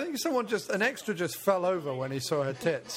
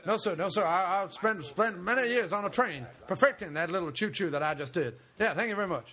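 lightly voiced earnest actor; a hint of a mock film-star voice; Tommy Lee Jones. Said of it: "Tommy Lee Jones is a method actor".

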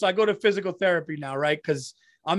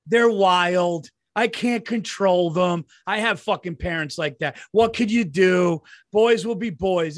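mock lazy parent; 4 dB louder, slower than usual. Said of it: "mocking lazy parents".

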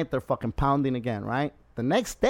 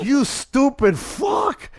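louder, higher scolding; imitating scolding a naive rafter; mock exasperated yell; 9 semitones higher, 5 dB louder than usual. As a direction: tear into him in disbelief. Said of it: "And I'm like".

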